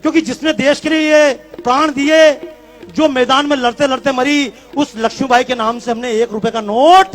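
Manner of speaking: forceful public speech to a crowd; rally oratory. Real, not acted. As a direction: challenge the crowd with rhetorical questions.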